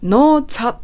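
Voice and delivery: "not at" run together like "no-cha"; "not at" as noちゃ. Shown as a demonstration. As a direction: link "not at" with a strong ch-like T. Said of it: "noちゃだと思っていただけると". (「not at」を「ノーチャ」のようにつなげて)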